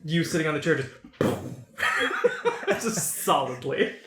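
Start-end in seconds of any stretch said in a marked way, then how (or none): 1.0-2.8 explosive puffed thud sound; imitated impact noise. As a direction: mimic a heavy body landing on a chair. Imitates sitting heavily on chair.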